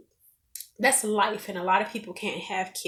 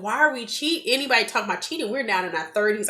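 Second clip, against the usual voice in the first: naive protest; 3 semitones higher, faster than usual. Retold or imitated. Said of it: "I had a very naive look".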